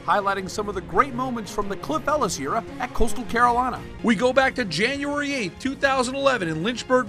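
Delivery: sports retrospective voiceover with swooping pitch; announcer read. Acted. Sponsor looking back on coach's historic win, announcer read. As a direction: announce a milestone for the highlight reel.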